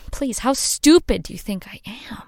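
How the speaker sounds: hushed, cutting disbelief; scornful whisper. Acted. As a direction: whisper the insult at him.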